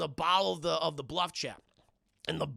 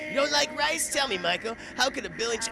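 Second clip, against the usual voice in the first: vampire line; 7 semitones higher, 4 dB louder than usual. Retold or imitated. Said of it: "that's right".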